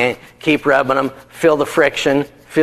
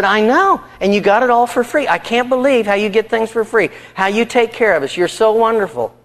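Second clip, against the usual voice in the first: higher-pitched adoring wife; gushing admiration; 7 semitones higher than usual. Retold or imitated. Wife flattering her proud husband, gushing admiration. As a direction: lay on the praise, pitched up.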